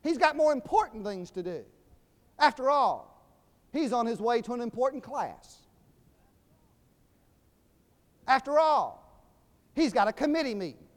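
loud, high mock-indignant shushing; hammed-up officious scolding; rebuking. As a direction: brush off a pest on behalf of someone important. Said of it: "telling him to be quiet".

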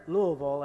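"Louisville" slurred straight through as LOO-uh-vul; local three-syllable Louisville. Shown as a demonstration. Visiting preacher showing locals he learned their way, "Louisville" as LOO-uh-vul. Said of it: "say that with three syllables".

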